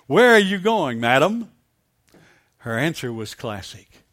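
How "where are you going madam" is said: a touch of gruff demand; lightly voiced gruff questioning. Soldiers accosting a young woman, mildly gruff. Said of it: "asked her very gruffly".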